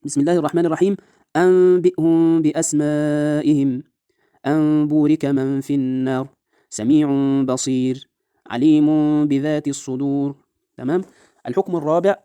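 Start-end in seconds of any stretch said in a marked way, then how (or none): 0.0-10.4 measured Quranic chant, long nasal m in أن بورك and سميع بصير; iqlab in recitation. Shown as a demonstration. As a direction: recite أنبئهم as "ambi'hum", lingering on the m. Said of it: "التطبيق إزاي طيب؟".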